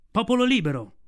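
loud, high call to the whole pack; shout. A narrator's reading. Mowgli shouting at the wolf council. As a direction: raise the voice and call out over the crowd. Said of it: "gridò".

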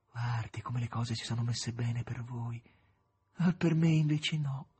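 put-on a melancholy young patient; young poet Ivanushka. Ivanushka voiced by reader.

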